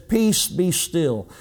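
slow, steady, hushed authority; slow calm rebuke to the wind; calm command. Acted. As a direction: still the storm gently. Jesus calming the storm.

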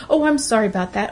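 quick, hollow "Oh, I'm sorry about that" rattled off; mock empty apology. Mocking people who apologize for every movement, hurried hollow sorry. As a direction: toss it off like a reflex. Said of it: "you need to apologize for".

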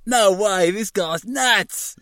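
put-on high, shouted Australian accent. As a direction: yell it, Aussie cop. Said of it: "doing an Australian accent".

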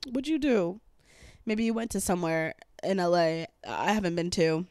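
burpy, gassy talk; talking while burping. Real, not acted. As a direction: speak through a burp. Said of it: "I'm sorry, I'm burping a lot".

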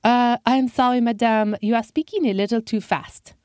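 put-on polite Frenchman, French accent. Frenchman asking the old man to repeat, French accent. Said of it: "said in a French accent".

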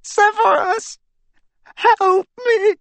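high, cracking, terrified plea; cracked terrified voice. Acted. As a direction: beg in terror, voice breaking. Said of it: "in a cracked and terrified voice".

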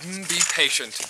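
high, faltering stammer fading out; nervous placating. Acted. Official promising to hurry, anxiously placating. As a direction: hurry to appease, stumbling as you go.

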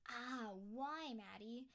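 scolding yourself in mock despair; frustrated at herself. Scolding herself over missed podcast episodes, exasperated. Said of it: "I get really frustrated at myself".

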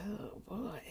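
soft, slow country drawl; country accent. Retold or imitated. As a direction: let a little country accent slip out. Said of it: "The little country accent came out".

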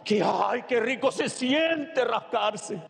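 slow, indulgent sigh of relief; mock relish. Preacher mimicking someone enjoying a scratch, slow and indulgent. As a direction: savour it, slow and drawn out.

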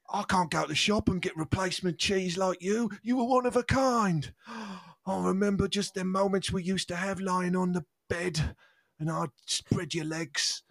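hammed-up grief. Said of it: "tragic scene ... closing monologue".

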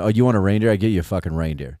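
low, soft, mock-drunk boasting; hammered rich person. Hammered rich person offering someone a reindeer, mock-drunk. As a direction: lightly play a tipsy rich fixer. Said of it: "rich people talk about when they're hammered".

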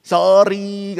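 light, insincere smiling apology; imitated smiling apology. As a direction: act out a child's too-easy, grinning sorry. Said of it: "sorry itu sambil senyum-senyum".

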